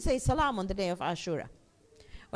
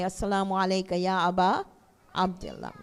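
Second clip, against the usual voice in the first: gentle greeting; 7 semitones lower than usual. Shown as a demonstration. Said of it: "take their glasses and say".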